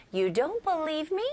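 높게 올려 묻는 서운한 말투; 내 말을 왜 안 믿냐는 듯 가볍게 따지기; 믿지 못하는 서운함. Shown as a demonstration. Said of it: "이런 말투입니다". (억울한 듯 끝을 올려 묻는 말투)

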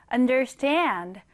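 understand with the stress on its last syllable, stand; stress on the end. Shown as a demonstration. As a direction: lean on the final syllable of understand. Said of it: "강세를 주시면 됩니다". (understand의 뒤 음절 stand에 강세)

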